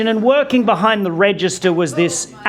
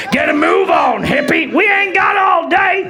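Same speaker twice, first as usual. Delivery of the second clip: gruff redneck yell; 6 semitones higher than usual. Retold or imitated. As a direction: bark it like an angry Texan. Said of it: "these guys start circling".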